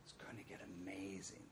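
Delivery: breathless whispered promise; a dreamy whisper of expectation; hopeful whisper. Retold or imitated. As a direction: whisper it like a secret hope. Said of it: "It's like".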